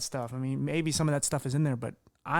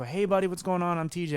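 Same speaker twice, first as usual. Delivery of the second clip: higher, outgoing and energetic; upbeat friendly greeting; 4 semitones higher than usual. Pretend. Son wishing he had greeted mom's friend with energy. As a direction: greet him with real warmth and energy. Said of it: "how I'm talking to you now".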